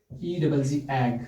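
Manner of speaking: teacher slowly spelling a word for students. Shown as a demonstration. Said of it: "जैसे मैंने बोला बच्चों".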